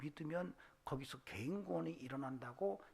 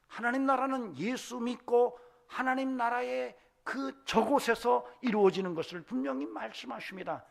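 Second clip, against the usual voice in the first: loud, high, driving sermon climax; full-force preaching; 7 semitones higher, 11 dB louder than usual. Real, not acted. Preacher blessing the congregation to overcome the world, full-force preaching. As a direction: proclaim it at full volume to the congregation.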